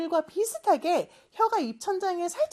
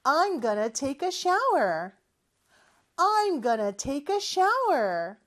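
slow repeat-after-me; much slower than usual. Shown as a demonstration. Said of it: "큰 소리로 따라해볼까요".

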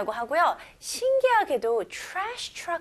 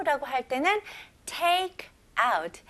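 ordinary talk, nothing marked

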